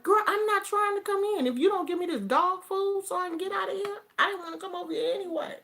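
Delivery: high, fast, exasperated retelling; exasperated retort. Retold or imitated. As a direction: act out snapping back at the clerk. Retold retort to store clerk.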